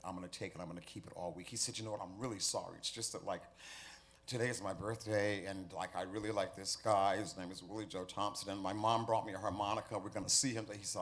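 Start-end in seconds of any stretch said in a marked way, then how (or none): 0.1-1.5 louder, firm teacher's warning; stern warning teacher. Acted. Teacher warning the harmonica boy, loud and firm. 1.8-10.6 put-on excited little boy. Child excitedly explains birthday.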